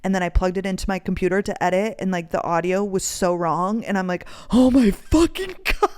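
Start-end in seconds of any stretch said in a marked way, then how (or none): 4.5-5.9 hammed-up disbelief, rising high; retold exasperation. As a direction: act out an exasperated meltdown, laughing on it. Retelling her horror at ruined audio.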